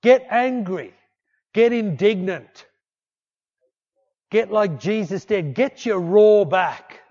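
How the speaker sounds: loud, rising preacher's call; rousing shout. Acted. Preacher rallying the congregation, loud and rising. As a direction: stir the crowd to fight back. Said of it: "Stop telling yourself your life is over".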